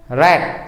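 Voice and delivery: रैट as one closed syllable; one breath. Shown as a demonstration. Teacher repeating the monosyllable, रैट in one breath. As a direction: say रैट in one piece, ending on the T. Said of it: "एक सांस में हम इसको बोल रहे हैं".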